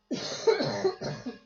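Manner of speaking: sharp dry cough; real cough. Real, not acted. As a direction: cough hard. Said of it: "I'm so sorry for the coughing".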